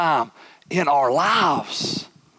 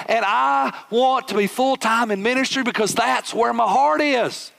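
higher, urgent pleading rant; passionate complaint; 5 semitones higher than usual. Retold or imitated. Preacher retelling his frustration with carpet, fervent pleading rant. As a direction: pour out the calling, fervent.

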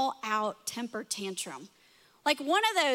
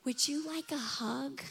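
sarcastic offer; 6 dB quieter than usual. Retold or imitated. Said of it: "kinda sarcastically".

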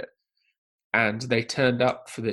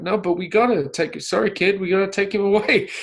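higher, louder, playing the stern officer; mock stern director; 7 semitones higher, 4 dB louder than usual. Podcaster voicing Spielberg playing along in the audition. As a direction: firmly tell the kid it must go. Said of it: "He's like".

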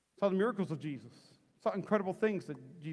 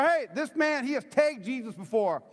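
higher-pitched mock accusation; calling him out; 6 semitones higher, 4 dB louder than usual. Serving girl exposes Peter to the crowd, higher comic call-out. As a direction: point him out to the crowd, playfully. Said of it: "So she calls him out".

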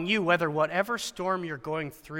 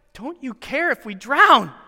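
slow, lightly raised indignant question; incredulous accusation; 6 semitones higher, 5 dB louder, slower than usual. Retold or imitated. Disciples accusing Jesus of not caring, indignant. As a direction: ask it as an accusation, drawn out.

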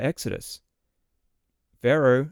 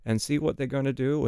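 mildly mocking, higher-pitched quote; sarcastic; 5 semitones higher than usual. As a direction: lightly voice God's sarcasm in a raised pitch. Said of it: "God very sarcastically says".

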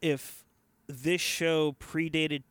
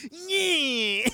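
imitating Archer's sigh; 9 semitones higher than usual. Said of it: "just going like".

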